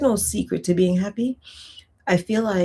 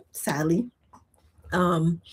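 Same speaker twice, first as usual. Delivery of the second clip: whispered; 4 dB quieter, slower than usual. Real, not acted. Sad aside after life is hard.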